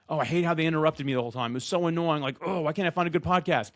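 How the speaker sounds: lightly acted exasperated grumble; mock complaining. Guest griping about an interrupting host, mock exasperated. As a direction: imitate a guest griping, slightly quick at first.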